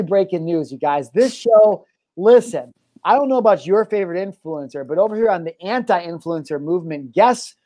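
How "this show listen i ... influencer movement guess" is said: hyped announcer. Pretend. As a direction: sell it like a show host.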